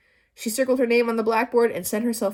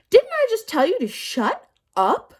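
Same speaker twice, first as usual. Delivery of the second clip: much higher, loud furious teacher; furious scolding; 13 semitones higher, 7 dB louder than usual. A narrator's reading. Teacher raging at Todd. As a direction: rage at the boy.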